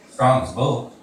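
loud, high proud boast about Lenny; George boasting. Acted. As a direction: sell his strength to the boss, chest out. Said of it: "he repeated".

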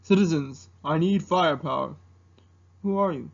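lightly put-on commanding dragon; Mushu. Dragon demanding firepower from citizens, mock-commanding impersonation. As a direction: requisition firepower with mock authority. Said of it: "doing an impersonation of Mushu".

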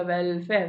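വെൽഫെയർ leaning on "വെൽ"; stress on first syllable. Shown as a demonstration. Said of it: "ആദ്യത്തെ syllable ആണ് stress".

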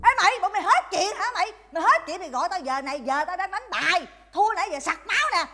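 irritated mother telling off callers; scolding. Acted. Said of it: "bà chửi cho bại não". (chửi xối xả, bực bội)

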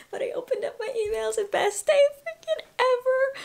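excited whisper. Real, not acted. Excited reading acceptance email.

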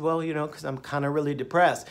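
soft, mumbled excuse; mock mumble. Imitating his old self answering the doctor, softly. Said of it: "And I said".

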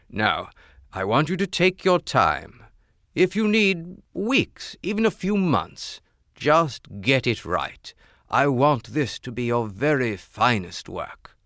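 regal king voice. Acted. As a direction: urge him to take his time. King instructs the jeweler.

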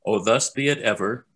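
stately anthem verse, spoken; solemn recitation. Real, not acted. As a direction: recite it with feeling, firmly projected. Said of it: "I'm going to recite it now".

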